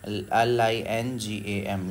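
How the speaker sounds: letter by letter, slow and deliberate; slow spelling out. Shown as a demonstration. Teacher spelling the word slowly for students. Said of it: "इसको English में आप इस तरह से लिख सकते हैं".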